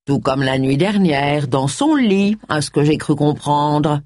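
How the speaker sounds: slow, purring, spiteful hint; wicked stepmother. Acted. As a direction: purr it slowly with a sly sting. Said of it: "susurra Charles".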